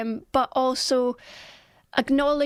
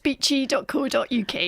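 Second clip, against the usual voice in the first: Scottish accent. Shown as a demonstration. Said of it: "You say it".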